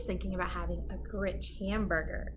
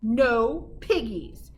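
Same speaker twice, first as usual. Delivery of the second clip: slow, drawn-out answer; slow farmer no; 5 dB louder, much slower than usual. Acted. Farmer shrugging off the witch, slow. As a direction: drag out the no.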